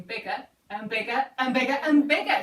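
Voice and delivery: building a little with each "bigger"; crescendo. Shown as a demonstration. Teacher explaining crescendo to children, voice steadily building. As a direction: grow bit by bit as you go. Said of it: "A crescendo is getting".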